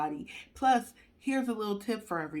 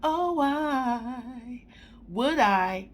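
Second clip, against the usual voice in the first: exasperated plea; 7 semitones higher, 4 dB louder, slower than usual. Real, not acted. Exasperated at radiation advice.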